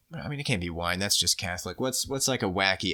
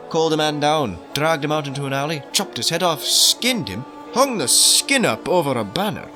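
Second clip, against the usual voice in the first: dramatic grisly recounting; 4 semitones higher, 5 dB louder than usual. Acted. Priest recounts a grisly attack.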